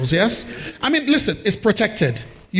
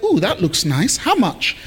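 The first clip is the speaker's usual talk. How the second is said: lightly acted keen customer, pitch jumping on the question; a hint of a curious buyer; mock eager buyer. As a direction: play an interested shopper haggling with himself. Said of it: "you came over here and you said".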